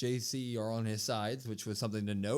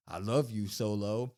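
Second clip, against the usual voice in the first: half-assed; 3 semitones lower than usual. Retold or imitated. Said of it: "a very half-assed".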